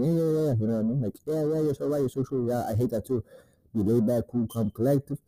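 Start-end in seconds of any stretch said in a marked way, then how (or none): 0.0-0.5 higher, eager yeah-yeah of a pushover; lightly voiced people-pleaser; mock eager agreeing. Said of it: "Don't be fucking responding twenty-four seven". 1.2-3.2 mock eager agreeing. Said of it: "Don't be fucking responding twenty-four seven".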